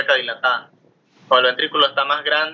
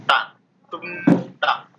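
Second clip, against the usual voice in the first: heartbeat onomatopoeia; slower than usual. Shown as a demonstration. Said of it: "descripción onomatopeica".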